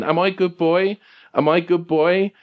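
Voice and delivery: high, needy talking-dog question; Sergeant Pupper. Acted. Anxious dog seeking approval, high pleading doggy voice. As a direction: plead high, lifting on "boy". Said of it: "Papa's is asking this question".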